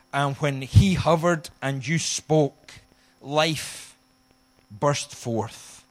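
prayer. Acted. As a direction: pray aloud before the congregation. Leads congregation in prayer.

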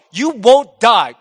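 loud, slow, insistent acted lie; full frontal assault. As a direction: push each word out hard and slowly. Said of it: "so he just full frontal".

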